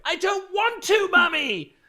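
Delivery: very high, drawn-out brat whine; annoying accented child. Retold or imitated. Boy refusing the meerkats to his mummy, shrill-pitched mock whine. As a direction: imitate a whining kid, stretching the words. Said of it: "he had that annoying accent".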